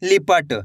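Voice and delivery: "लिपट" said briskly with a short i; quick short i. Shown as a demonstration. Teacher showing how short i sounds, "लिपट" said quickly. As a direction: keep the "लि" of "लिपट" quick, falling at the end. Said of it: "उच्चारण तेजी के साथ करना है".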